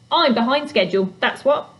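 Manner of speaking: gruff, busy goblin; grumpy goblin voice. Acted. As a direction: brush her off grumpily. Fletch's voice.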